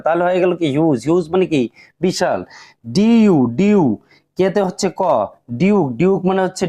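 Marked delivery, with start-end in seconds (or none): 3.0-3.8 "ডিইউ" বানান করে "ডিউ" টেনে বলা; "ডিউ"-তে লম্বা ইউ ধ্বনি; ইউ উচ্চারণ দেখানো. Shown as a demonstration. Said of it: "ইউ উচ্চারণ করতে হচ্ছে". (শিক্ষকের মতো "ডিইউ, ডিউ" ভেঙে বলা)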